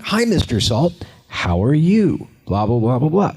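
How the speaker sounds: high, stilted greeting to an empty spot; fake greeting. Shown as a demonstration. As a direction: act like you're talking to nothing, falsely bright. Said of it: "It would look really fake".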